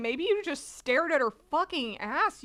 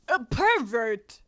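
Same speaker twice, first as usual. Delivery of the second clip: put-on slow Southern accent; drawn-out accusation in a Southern accent; 4 dB louder, slower than usual. Manga girl accusing a starer, slow Southern accent. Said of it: "We're ditching the Southern accent".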